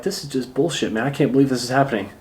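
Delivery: low, quiet muttered grumble, speeding up at the end; stewing under your breath, annoyed; quiet annoyed grumble to yourself; getting pissed off. Shown as a demonstration. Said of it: "Actually getting pissed off".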